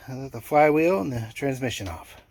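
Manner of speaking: winded and puffing after heavy lifting; out of breath. Real, not acted. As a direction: talk while still catching breath. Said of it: "Now I'm out of breath".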